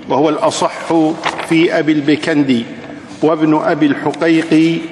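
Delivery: slow measured chant of the poem; slow traditional verse recital; verse recitation. Shown as a demonstration. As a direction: recite the verses slowly, lilting.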